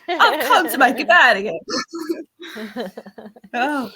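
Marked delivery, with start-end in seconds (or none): 0.0-1.6 mock cheery reintroduction. Debt collector greeting a patient on their worst day, mock cheery. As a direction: greet them too cheerfully, half laughing. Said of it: "Yeah, it's like".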